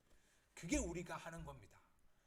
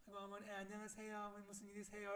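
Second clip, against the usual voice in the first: sugary polite greeting, put on; lowered, smiling phone voice; 3 semitones higher than usual. Angry mum suddenly answering a phone call, smiling politely. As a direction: switch to a sweet, softened phone manner. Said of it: "목소리를 낮추고 웃는 표정으로".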